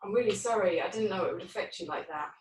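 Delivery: gentle, subdued regret; apologetic. Acted. Role-plays other person apologising.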